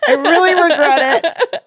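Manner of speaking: high, loud laughing regret. Real, not acted. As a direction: laugh while admitting it. Regretting game choice, laughing.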